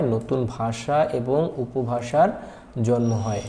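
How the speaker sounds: slow dictation pace, "ভাষা" stressed; teacher slowing down for the key point; slow, stressed key line. Shown as a demonstration. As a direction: lay out the key answer slowly for students. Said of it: "এটা একটা খুবই গুরুত্বপূর্ণ একটা line".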